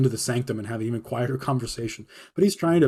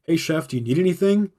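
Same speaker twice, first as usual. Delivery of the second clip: higher, overly sweet politeness; fake nice; 5 semitones higher, 4 dB louder than usual. Cook to snooping head chef, higher and fake-sweet. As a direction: sound friendly while meaning get lost. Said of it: "Like, just real nice".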